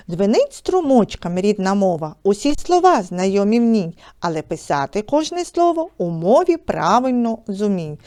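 rhythmic, measured reading of verse; poem recitation. Acted. Teacher recites a short poem. (декламація вірша)

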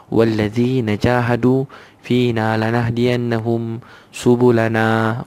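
slow, drawn-out Arabic recitation; Quranic recitation. Acted. Preacher reciting the verse to his listeners, slow and reverent. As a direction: intone the verse slowly and reverently.

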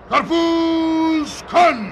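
slow, drawn-out shout with the weight on kan; drawn-out vendor shout. Shown as a demonstration. Father teaching his son the street cry, a slow stretched shout. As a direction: show the boy how to cry the melons. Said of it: "işte böyle söyleyeceksin oğlum".

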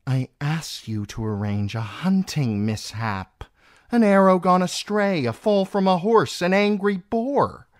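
high, loud, haughty reproach; exasperated scolding. A narrator's reading. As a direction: tick off the options with mounting irritation. Queen scolds Felice over botched plot.

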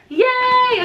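high, slow yay of delight; delighted squeal. Real, not acted. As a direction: let the yay fly up high and loud. Delighted by eyeshadow colors.

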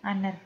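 Honor said AH-ner with no H; silent H. Shown as a demonstration. Teacher repeating Honor for the class. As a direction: drop the H in Honor. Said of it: "H itu dia tidak terbaca".

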